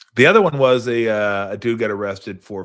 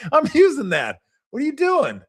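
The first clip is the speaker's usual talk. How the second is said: high-pitched mock outrage, much higher; outraged neighbour; 3 dB louder than usual. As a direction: squeal it like an indignant tenant. Acted outraged neighbour quote.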